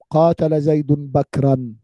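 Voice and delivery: slow, word by word, for the class; slow example sentence. Shown as a demonstration. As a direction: spell out each word of the example slowly. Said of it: "حينما أقول لكم". (مثال نحوي يُقرأ ببطء كلمة كلمة)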